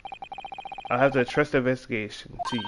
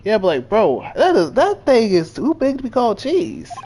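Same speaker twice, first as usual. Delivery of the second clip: incredulous; 9 semitones higher, 7 dB louder than usual. Real, not acted. Incredulous outburst about cheese size.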